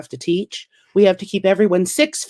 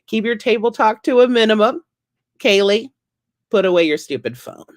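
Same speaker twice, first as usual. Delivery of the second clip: comedy host voice; 5 semitones higher than usual. Retold or imitated. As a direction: greet the students like a club crowd. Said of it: "I'm at school and I'm like".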